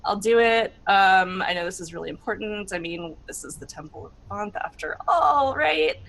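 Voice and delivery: exasperated, grudging giving in; fine, whatever, roll with it; mild mock exasperation. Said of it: "I'm like".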